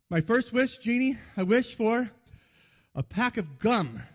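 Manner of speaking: acted friend making a big announcement; wish announcement. Friend tells the genie his first wish, mock-grand announcement. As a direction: declare the wish grandly, starting high.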